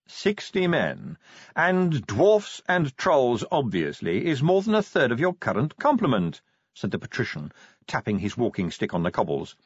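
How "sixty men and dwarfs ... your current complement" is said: Vetinari voice. Acted. Vetinari's measured dialogue.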